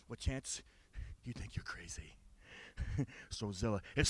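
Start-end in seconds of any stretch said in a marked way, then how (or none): 1.2-2.1 low threatening whisper; menacing whisper. Acted. Wrestler whispering threats at Chance. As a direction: hiss the taunt softly.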